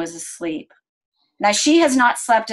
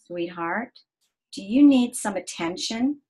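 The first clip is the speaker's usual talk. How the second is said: soft, tender softer ask; gentle question; 3 dB quieter than usual. Retold or imitated. Mother asking her upset daughter, soft and tender. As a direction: lean in close and ask softly.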